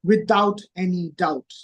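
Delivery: "without any doubt" slowly, each word weighted; slow, emphatic "without any doubt", falling at the end; stress on without any doubt. Shown as a demonstration. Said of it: "He's emphasizing on the word".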